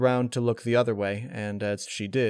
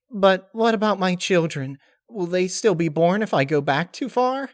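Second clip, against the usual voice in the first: worried Pinkie; 9 semitones higher, 6 dB louder than usual. Acted. Pinkie worried about children.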